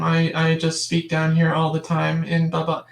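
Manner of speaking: lightly mocking monotone man's voice; male monotone demo. Shown as a demonstration. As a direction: flatten it out like a bored guy. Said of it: "a male tends to speak very, very monotone".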